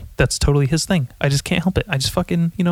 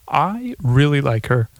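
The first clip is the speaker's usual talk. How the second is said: slipped-in comedian voice; slower than usual. Acted. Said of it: "Uh, excuse me. I'm very sorry".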